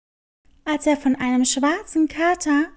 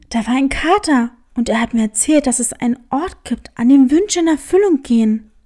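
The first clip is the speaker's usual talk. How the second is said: fast, excited rush of news; 4 semitones lower, 4 dB louder, faster than usual. Acted. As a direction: blurt it all out to her. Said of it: "Aufgeregt berichtete er ihr". (aufgeregt und schnell)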